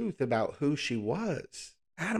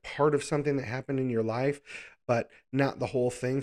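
ordinary talk

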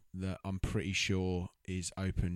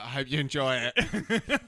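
mock waiter; 4 semitones higher, 4 dB louder, slower than usual. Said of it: "He's like".

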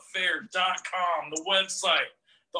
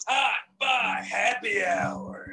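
hyped shout; 5 semitones higher, 3 dB louder, slower than usual. Real, not acted. Host shouts show opener.

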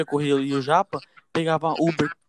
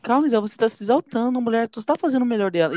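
soothing friend; 6 semitones higher than usual. Retold or imitated. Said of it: "eu falei assim".

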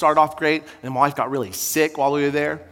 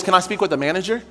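Karen demanding manager; 5 semitones higher, faster than usual. Acted. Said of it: "like a Karen at Red Robin".

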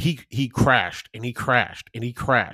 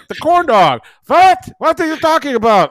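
exasperated retelling; 11 semitones higher, 8 dB louder than usual. Retold or imitated. Exasperated retold exchange.

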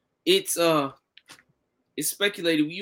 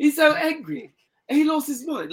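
mock-outraged, higher and louder; mocking impression; 6 semitones higher, 4 dB louder than usual. Retelling the promoter's rant, mock outrage. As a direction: ham up the quoted boss's anger for laughs. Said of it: "He said".

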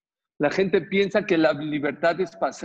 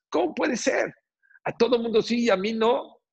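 raised, high-pitched pleading protest; retold tearful protest; 8 semitones higher than usual. Daughter pleads with her rabbi father for a blessing, retold tearful protest. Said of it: "fue llorando y le dijo".

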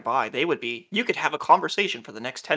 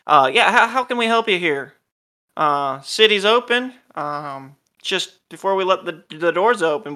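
guardsman; 3 semitones higher, 7 dB louder than usual. Acted. Gate guard greets the arriving party, loud and hearty. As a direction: boom it out like a gate guard questioning travelers. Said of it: "the guardsman goes".

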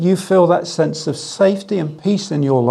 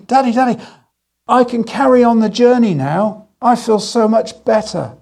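put-on higher, brighter child calling Daddy; refreshed son telling his father he can go on, eager; 5 semitones higher than usual. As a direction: bounce back like a revived kid. Refreshed child tells dad.

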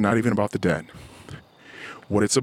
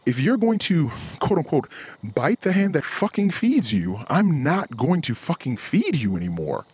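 heated warning; 6 semitones higher than usual. Retold or imitated. Quoting his own warning, raised.

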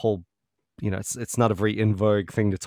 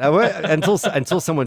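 laughing; 7 semitones higher, 7 dB louder than usual. Real, not acted. Laughs at own joke.

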